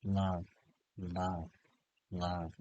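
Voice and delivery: hushed, low repeated word; soft mantra repetition. Shown as a demonstration. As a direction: murmur it softly, pausing between repeats. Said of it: "You can repeat".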